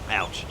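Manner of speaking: coughing, then a quiet ouch; throat-clearing cough. Real, not acted. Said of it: "It hurts my throat".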